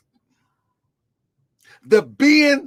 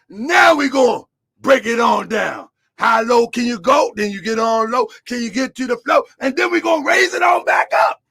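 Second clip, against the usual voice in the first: preaching; 2 semitones higher than usual. Real, not acted. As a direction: whip the room up, preacher style. Preacher building to a peak.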